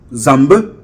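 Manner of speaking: Zambe with a final muted "eu" vowel; prononciation boulou. Shown as a demonstration. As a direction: say Zambe the Boulou way, ending "-beu". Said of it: "les Boulous". (prononciation boulou de Zambe, finale en « eu »)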